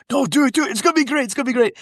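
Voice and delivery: very high, excited coaxing; imitating a giddy, high-voiced persuader; eager urging. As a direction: egg a friend on to join a prank. Actor eagerly talking him into prank.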